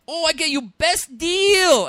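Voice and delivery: put-on high, slow, loud caricature accent; a pushy salesman's stereotype voice; mock Asian accent. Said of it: "doing the Crasian character".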